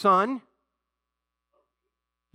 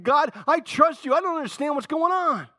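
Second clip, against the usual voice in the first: heartfelt prayer; 10 semitones higher, 4 dB louder than usual. Shown as a demonstration. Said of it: "we can thank him".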